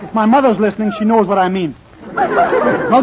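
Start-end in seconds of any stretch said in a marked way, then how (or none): 2.1-3.0 squeaky high "well". Acted. Saying goodbye to the flirting baker, high squeak. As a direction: jump way up on the well.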